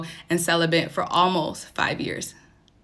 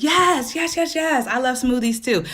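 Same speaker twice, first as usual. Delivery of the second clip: high, eager burst of yeses; excited agreement; 7 semitones higher, 4 dB louder than usual. Real, not acted. Host agreeing with a viewer about loving smoothies, excited. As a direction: gush in a raised pitch, delighted to agree.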